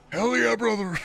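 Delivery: high, shouted wrestling promo; laughing wrestler promo shout; wrestler impression. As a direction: hype it up like a wrestler on the mic. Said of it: "the Stone Cold voice".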